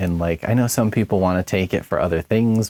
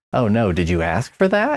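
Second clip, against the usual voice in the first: put-on pointed, accusatory tone with swooping pitch; 3 semitones higher than usual. Retelling coffee workers questioning an order: imitating an accusatory tone. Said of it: "kind of accusatory".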